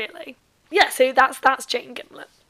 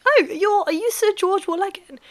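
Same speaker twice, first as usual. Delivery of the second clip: put-on higher, brighter-pitched girlish surprise; young lady's voice; 8 semitones higher, 4 dB louder than usual. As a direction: voice the girl, higher and louder. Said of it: "And she's like".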